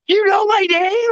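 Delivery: high, rising mock surprise; high innocent question. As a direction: feign amazement. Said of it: "And I was like".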